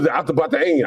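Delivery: "Atabata'in" garbled as at-uh-buh-ta-EEN; imitated mispronunciation. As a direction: mimic the muddled "Atabata'in". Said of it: "I was like, "The what?".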